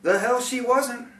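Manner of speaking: scoffing retort. Real, not acted. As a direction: spit it out in disbelief. Bitter retort about the nun.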